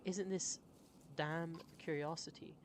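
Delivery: a hint of Southern accent. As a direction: try out a Southern American accent. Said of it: "It's kind of like this".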